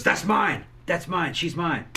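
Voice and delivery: loud possessive cry; possessive whining. Retold or imitated. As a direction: shout it like he owns her. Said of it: "and he goes".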